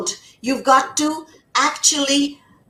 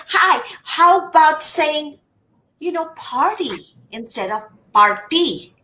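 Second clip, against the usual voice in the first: gentle teacher suggestion; 3 semitones higher than usual. Shown as a demonstration. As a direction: ease them toward the right word. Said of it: "but you teach them, say".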